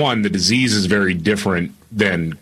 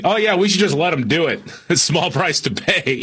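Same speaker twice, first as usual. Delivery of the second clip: mock callous; 6 semitones higher than usual. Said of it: "Wasn't saying".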